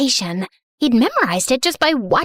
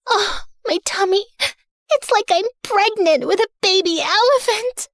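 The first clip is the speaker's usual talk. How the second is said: higher-pitched, hammed-up suffering; feigned belly pain; 4 semitones higher than usual. Prisoner fakes period pain to lure the guard, hammed-up moaning. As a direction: whine as if faking a cramp.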